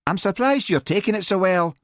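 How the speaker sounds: high, surprised sing-song whine; startled. A narrator's reading. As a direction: pitch it right up, taken aback. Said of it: "Mary threw him a startled look".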